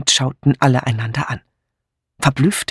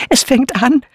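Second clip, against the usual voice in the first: high, louder thrilled cry; ekstatischer Ausruf; 10 semitones higher, 4 dB louder than usual. A narrator's reading. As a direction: call it out in ecstasy. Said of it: "rief Misses Harmond in Ekstase". (ekstatisch gerufen)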